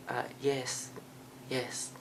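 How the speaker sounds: high, very soft, hesitant; put-on meekness. Student lies to the counselor about being exchange student, put-on meekness. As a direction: play the shy exchange student, small voice.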